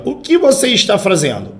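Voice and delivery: "O que" high, falling away by "fazendo"; direct question. Shown as a demonstration. Teacher reads the example sentence aloud, direct questioning tone. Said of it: "Olha a leitura da primeira frase".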